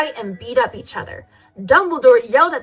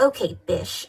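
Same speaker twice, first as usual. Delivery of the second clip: sad; 5 semitones lower, 7 dB quieter than usual. A narrator's reading. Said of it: "I said sadly".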